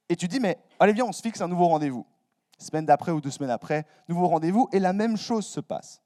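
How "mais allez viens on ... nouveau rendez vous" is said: eager urging. Retold or imitated. Urging friend to rebook meeting.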